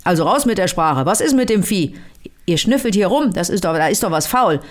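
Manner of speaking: mild mock growl. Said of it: "Da raunzt er".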